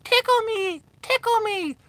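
high squeaky little toy voice. Retold or imitated. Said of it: "hear a little squeaky voice go".

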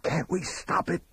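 urgent, forceful whisper; harsh stage whisper. Acted. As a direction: whisper a horrified plea. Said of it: "I whispered".

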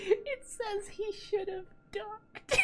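high, tearful laugh-shout; shrieking laugh. Real, not acted. Streamer reading the duck caption, crying laughing. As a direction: blurt it out cracking up.

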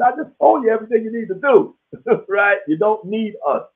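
high, laughing comeback; amused retort. Retold or imitated. Answering callers asking for help, high laughing retort.

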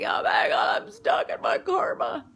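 high, loud, unvoiced shout; mock panic. Retelling her karma panic, shouting. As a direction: exclaim in mock horror. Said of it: "I was like".

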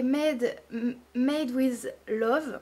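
"Made with Love" slowly in thick French English; English words said the French way, slow; strong French accent. Real, not acted. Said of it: "avec mon accent ultra".

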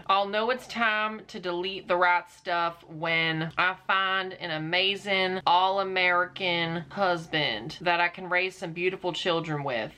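earnest mock country-girl accent; measured, lightly hammed-up country accent; put-on accent. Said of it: "If I do this accent too much".

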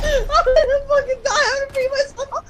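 high, strained, tearful laughing; laugh-crying panic. Real, not acted. Trapped in game, half crying half laughing. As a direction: wail it through laughter.

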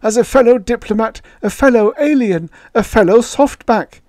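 high-pitched, loud pleading; an urgent stage plea, no true whisper; hoarse alien plea. A narrator's reading. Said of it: "Yith whispered hoarsely".

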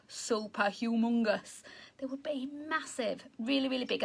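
hushed, marvelling at huge trees; awed whisper. Acted. Teacher whispering in awe about huge rainforest trees. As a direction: whisper it in wonder.

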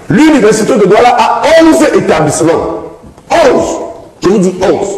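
"onze" pitched high and repeated emphatically; stress on onze. Real, not acted. Martèle un chiffre en débat. (insistance sur « onze », voix haute)

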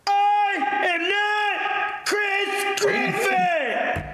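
high shouting cartoon voice; Chris Griffin voice. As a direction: yell it like a cartoon teen.

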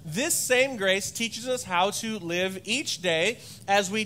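slow, measured reading of the verse; scripture reading. Acted. Pastor reads Titus to the church, slow and measured. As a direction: read it slowly, weighing each phrase.

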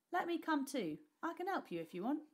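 put-on a street boy begging to tag along; eager boy. Nick asking the rich boy to let him come, eager.

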